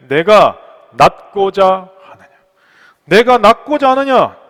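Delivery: slow, loud, weighted question; emphatic proclamation. Acted. Preacher voicing Jesus's question to the sick man, slow loud proclamation. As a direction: proclaim each word slowly and firmly.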